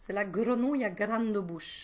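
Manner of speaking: southern French Toulouse accent. Reading a children's book title to the kids, with a Toulouse accent. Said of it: "avec un accent toulousain".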